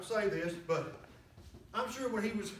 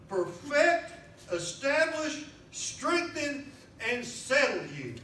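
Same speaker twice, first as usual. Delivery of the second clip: slow, deliberate reading of scripture; slower than usual. Real, not acted. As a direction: read it slowly, building on each word. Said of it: "First Peter five ten".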